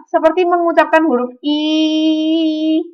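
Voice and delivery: seperti mengucapkan huruf I with lips spread in a broad smile; I sound, wide smile. Shown as a demonstration. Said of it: "perhatikan saya".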